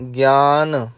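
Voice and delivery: ਗਿਆਨ with the full ਨ sounded at the end; full ਨਾ in gian. Shown as a demonstration. Teacher shows students how to finish ਗਿਆਨ clearly. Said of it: "ਨਾ ਲਾਉਣਾ ਹੈ ਪੂਰਾ".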